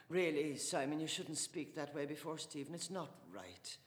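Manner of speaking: a hint of a pleading wife; gentle protest. Wife asking her husband to mind Stephen, pleading.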